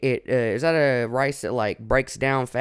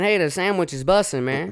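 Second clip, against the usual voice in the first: higher, chirpy hey, sandwich is bussin'; mock slang; 6 semitones higher than usual. Host voicing himself using slang on confused coworkers. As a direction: toss out the slang like a Chicago dude. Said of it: "See, I was just saying".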